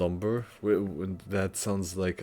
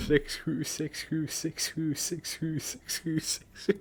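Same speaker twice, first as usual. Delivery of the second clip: robotic mispronounced six who, much higher pitch; looping machine voice with a horrendous accent; mock Google Translate; 8 semitones higher, slower than usual. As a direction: imitate a bad text-to-speech voice. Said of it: "Google Translate saying ... a horrendous accent".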